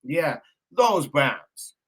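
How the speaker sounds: drawn out, slow and mocking; sarcastic drawl. Real, not acted. Mocking the Browns to his viewers, slow sarcastic drawl. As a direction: let it drag with a dry sneer.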